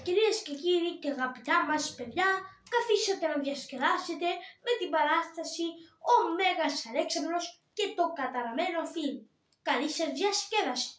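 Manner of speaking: lightly voiced boy playing announcer; a hint of a kid presenting the show; Koltiris announcing the show. Shown as a demonstration. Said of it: "Να σας κάνω και τη φωνή". (ελαφριά φωνή παιδιού που αναγγέλλει την παράσταση)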